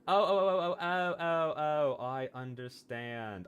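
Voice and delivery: rising oh oh oh as it clicks; a sudden, delighted penny-drop; excited realisation. Real, not acted. Finally gets the character, excitedly.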